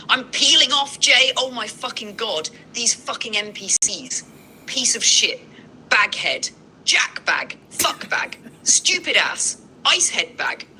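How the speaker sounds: high, panicked shrieking rant; a meltdown shouted from the store aisle; frantic panic. Pretend. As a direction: spiral into hysteria, voice way up. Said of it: "Jay, I'm losing it".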